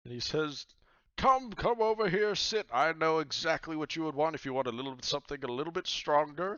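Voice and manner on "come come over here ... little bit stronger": high booming pirate captain, hearty and welcoming; pirate god voice. Acted. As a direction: play the jolly pirate god inviting him over.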